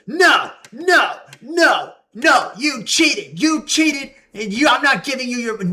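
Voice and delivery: hammed-up angry old boss yelling; angry boss shout. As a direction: shout him down like an outraged boss. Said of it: "he's getting all mad".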